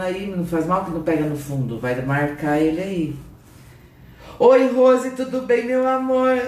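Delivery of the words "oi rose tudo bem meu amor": high, bright-pitched hello to a viewer; cheery high live-stream greeting; sing-song greeting. Real, not acted.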